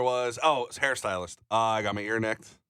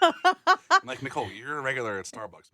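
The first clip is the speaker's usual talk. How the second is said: laughing; 2 semitones higher, 4 dB louder than usual. Real, not acted. Laughing while retelling.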